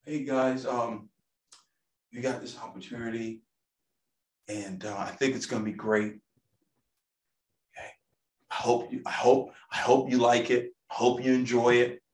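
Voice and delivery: mock the unsure speaker who lacks confidence; timid presenter. Shown as a demonstration. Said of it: "I'm not coming up".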